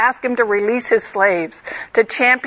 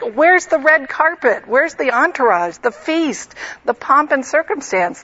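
indignant disbelief; 4 semitones higher than usual. Retold or imitated. Indignant Naaman expecting royal welcome.

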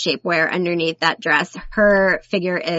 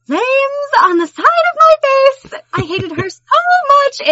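movie line impression; 5 dB louder than usual. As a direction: deliver it like a seething movie villain. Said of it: "the best part of her in all of it is".

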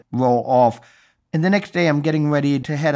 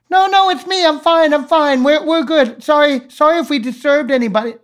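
phone voice; 13 semitones higher, 4 dB louder than usual. Pretend. Pretending to be his phone.

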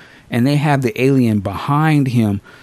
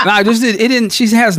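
talking through real laughter, pitched higher; giggly, higher-pitched, amused; laughing; 10 semitones higher, 3 dB louder than usual. Real, not acted. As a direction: laugh while you stumble over the words. Laughing through his words.

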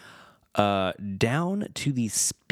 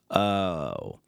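normal talking voice

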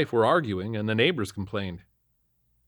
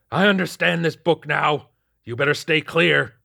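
put-on higher, louder vicious old man voice; menacing old man; 6 semitones higher, 6 dB louder than usual. A narrator's reading. Possessed old man warning the officer away, loud and higher. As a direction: warn him off, loud and high.

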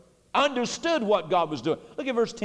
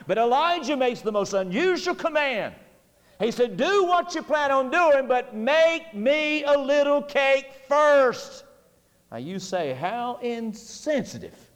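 full-force preaching; 4 semitones higher than usual. Acted. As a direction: build the sermon to a climax, driving each line.

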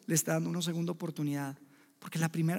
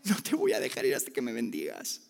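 P=A; humble plea; 7 semitones lower than usual. Acted. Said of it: "no, no, era".

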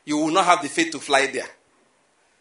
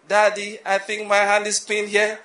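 put-on higher, louder child's cry for help, ending slow and laughing; mock child in distress; 4 semitones higher, 5 dB louder, slower than usual. Preacher imitating a child begging daddy for help, laughing. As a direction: play a stuck kid calling daddy. Child with hand stuck in wall.

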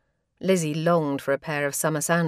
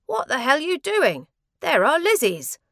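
angry brother shouting; 10 semitones higher, 4 dB louder than usual. Acted. Angry brother catches sandal swap.

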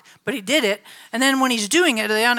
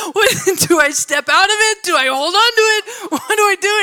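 retold panic; 9 semitones higher, 6 dB louder than usual. Friend panicking on the escalator.

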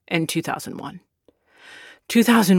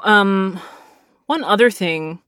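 normal talking voice

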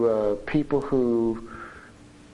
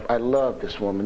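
normal talking voice

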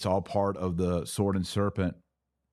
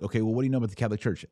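acted priest; 4 semitones higher, much faster than usual.

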